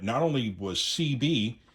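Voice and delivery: ordinary talk, nothing marked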